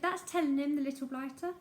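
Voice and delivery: put-on old woman's repeated shriek; shrieked again. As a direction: crow over the boy. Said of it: "shrieked Missus Pratchett".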